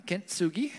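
whispered kintsugi; careful Japanese word. Shown as a demonstration. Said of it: "I think I'm saying that correctly".

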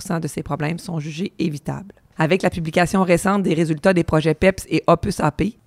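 raspy, worn-out voice; hoarse voice. Real, not acted. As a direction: speak through a hoarse throat. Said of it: "ma voix éraillée aujourd'hui".

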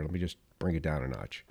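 calming down. Real, not acted. Host catches himself fired up and goes soft. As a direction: pull the energy right back. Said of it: "I'm getting a little fired up here".

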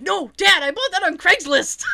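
high, loud wail of an imitated son; mock desperate protest. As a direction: cry out hammily to stop dad. Kid begs dad grabbing his Xbox.

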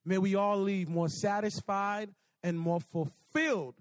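measured, subdued prayer voice; closing prayer. Real, not acted. Preacher praying over students with bowed heads, measured prayer. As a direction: pray it in unhurried phrases with pauses.

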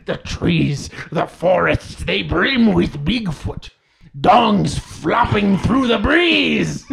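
dramatic poetry recital; grand rhythmic bard. Pretend. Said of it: "it's time for my nightly poem".

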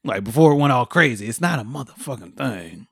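lightly voiced Tom Hanks, dismissive; mock-dismissive celebrity voice; Tom Hanks impression. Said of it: "Is what Tom Hanks said".

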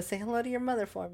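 quick, lightly voiced Wahlberg sketch line, rattled off fast; Mark Wahlberg SNL bit. Riffing on the SNL sketch for a co-host, quick light Wahlberg impression. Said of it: "reminds me of that Mark Wahlberg S N L bit".

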